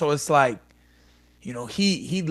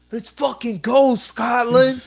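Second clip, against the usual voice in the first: hyped yell; 7 semitones higher, slower than usual. Retold or imitated. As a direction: fire up the Scottish crowd. Imagined hyped walkout yell.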